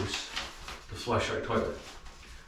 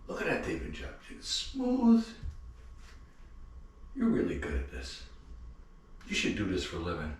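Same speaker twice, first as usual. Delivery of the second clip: soft, half-whispered pat on the back; quietly admiring his own work, half-joking; mock self-praise; 9 dB quieter than usual. Remodeler alone after the job, softly praising himself. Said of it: "You look around and you go".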